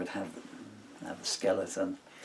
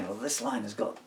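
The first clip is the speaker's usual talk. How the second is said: retold bandmate; 7 dB louder than usual. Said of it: "So he'd say".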